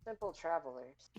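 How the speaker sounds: gentle, measured mentor voice; wise old sage. Acted. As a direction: speak like a kindly ancient guide. DM voicing wise NPC speech.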